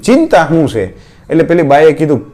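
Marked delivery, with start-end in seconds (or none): 0.0-0.8 firm, insistent ask, a little higher; pressing question. Retold or imitated. Guest pressing the crying wife, firm and insistent. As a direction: lean hard on the question. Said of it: "ભાર દઈને પૂછ્યું".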